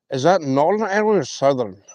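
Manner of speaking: put-on a light, half-hearted Irish accent; playful mock Irish accent. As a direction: slip into a jokey Irish accent. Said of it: "there goes my Irish accent".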